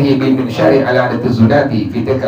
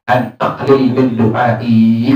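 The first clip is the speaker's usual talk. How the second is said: slow solemn divine voice; 4 semitones lower, much slower than usual. Retold or imitated. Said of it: "Kata Allah".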